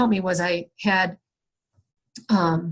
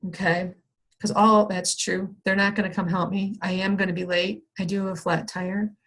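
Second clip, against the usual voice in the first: softer, settled self-talk; calm acceptance; 4 dB quieter than usual. Retold or imitated. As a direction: talk yourself down quietly. Calming self-talk after sigh.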